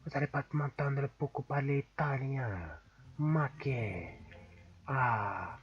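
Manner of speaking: put-on Italian accent; playful Italian-accented chat. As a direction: keep up a mock Italian accent. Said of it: "je vais prendre l'accent italien jusqu'à la fin".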